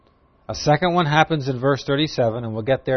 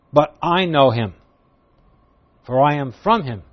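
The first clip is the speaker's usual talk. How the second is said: loud, slow, raised-voice proclamation; crying out; 3 semitones higher, 5 dB louder, slower than usual. Acted. Jesus calling out in the crowded temple, proclaiming loudly. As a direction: proclaim it slowly over a crowd. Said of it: "At the top of his voice".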